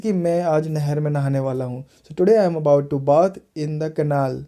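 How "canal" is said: "canal" as "कनाल", long second vowel; second-syllable stress. Shown as a demonstration. Teacher giving an example sentence, "canal" with a heavy second syllable. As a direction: lean on the end of "canal". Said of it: "इस तरह से".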